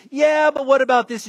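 mock argumentative voice; imitated challenger. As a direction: butt in with a doubting question.

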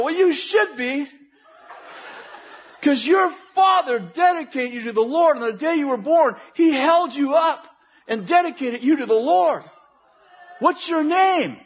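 high, insistent preacher's address; emphatic preaching. Retold or imitated. Preacher confronting a stranger on campus, emphatic and high-pitched. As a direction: press it home, drawing out the key words.

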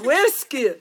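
"Where skill" as a botched Hoërskool; laughing, mispronounced "Where skill"; Scottish-sounding Afrikaans. Real, not acted. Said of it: "Why is it a Scottish accent?".

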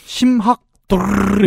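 unsure mumble fading out; trailing off. Retold or imitated. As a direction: let the word slur and fade. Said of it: "그 자신 없을 때 왜 말 흐리는 거".

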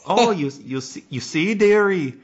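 high, lilting dearie voice; Missus Doubtfire. Acted. Introducing herself to "dearie", in a high nanny impression. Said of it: "I'm Missus Doubtfire".

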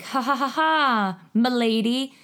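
a hint of a menacing Walken; Christopher Walken villain. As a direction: ham up a gloating villain. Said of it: "and he's like".

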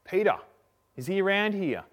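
high, loud calling at a door; mock yell from outside the house. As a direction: call out for someone inside. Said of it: "these people yelling out for him".

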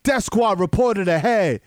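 light impression of a hype-man navigator; hype-man GPS alert, lightly voiced; a DJ. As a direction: announce it slowly, drawing out the last words. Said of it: compared to a well-known DJ's style.

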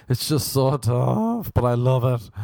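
hammed-up tearful complaint, dragged out slowly; mock crying. Comic retelling of girl on apples and enemas, mock crying. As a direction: imitate her struggling through tears. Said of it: "she started crying".

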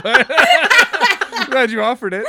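laughing while talking. Real, not acted. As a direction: talk through a big laugh. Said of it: "Not that".

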